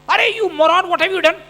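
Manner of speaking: mock scolding. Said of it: "she comes shouting at me".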